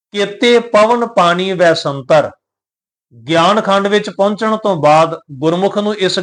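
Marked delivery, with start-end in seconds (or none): 0.1-2.3 slow, measured recitation of the verse; scripture recitation. Shown as a demonstration. Teacher reciting Gurbani to the sangat, slow and measured. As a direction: intone the line with care. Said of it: "ਸੋ ਅਰਥ ਬਣਦੇ ਨੇ".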